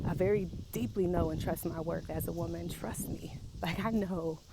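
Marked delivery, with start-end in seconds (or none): 2.7-3.4 soft unvoiced whisper; quick breathy confiding whisper; whispered aside. Real, not acted. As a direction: lean in and whisper it. Aside during self-affirmation.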